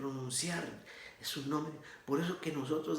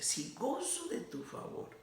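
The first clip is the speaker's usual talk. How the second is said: soft, high-pitched humble entreaty; humble plea; 11 semitones higher, 5 dB quieter than usual. Retold or imitated. Moses bowed before God, asking his favor, humbly. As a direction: plead gently, voice lifted high and soft. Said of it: "Moisés con toda humildad".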